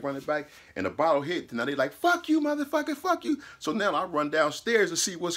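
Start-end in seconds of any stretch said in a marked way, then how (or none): 1.9-3.4 high shouted cussing across the lot; mock yelled insults. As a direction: yell it like a street fight. Mexicans yelling across the lot.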